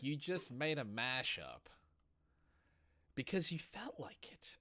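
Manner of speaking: slow whisper, trailing off. Retold or imitated. Quote ending in whisper.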